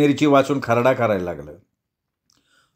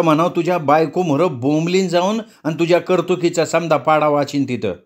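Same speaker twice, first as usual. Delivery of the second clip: fiery tirade, somewhat raised pitch; blazing anger; 5 semitones higher than usual. Acted. Ratni tears into the policeman with mild fury. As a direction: Ratni flaring up, hurling threats at the cop. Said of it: "राकेलचा डाबा पेटावा तशी रत्नी बडकली".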